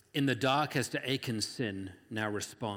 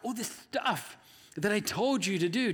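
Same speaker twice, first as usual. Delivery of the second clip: barking God; 5 semitones higher than usual. Acted. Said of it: "And God barks at Joshua".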